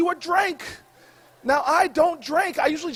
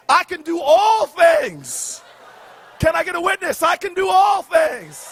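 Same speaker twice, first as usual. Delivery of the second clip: church preacher; 3 dB louder than usual. Acted. Mock preaching a Bible verse.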